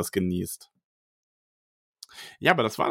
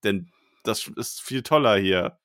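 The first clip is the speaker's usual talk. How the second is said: stiff hostage-style statement, lightly played; mock forced statement. Host reading a forced correction to listeners, mock stiff. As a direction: recite it like a coerced apology. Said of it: "ich bin nicht gezwungen".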